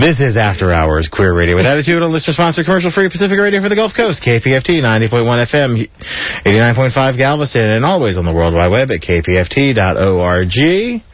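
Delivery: quick, brisk station announcer read; radio station ID. Acted. Radio host reading the station ID to listeners, brisk announcer read. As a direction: rattle off the call letters like a DJ.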